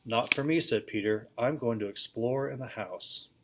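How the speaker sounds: steady read-aloud storytelling voice; lively classroom story reading; story narration. A narrator's reading. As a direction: read the tale to a class of children. Reads the book aloud to class.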